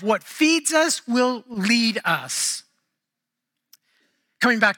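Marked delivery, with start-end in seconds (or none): 0.0-2.6 slow, weighty, falling on the last us; slow emphatic restatement. Shown as a demonstration. Preacher repeating his motto so the church remembers it, slow. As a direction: drive the lesson home slowly. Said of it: "I want us to remember this".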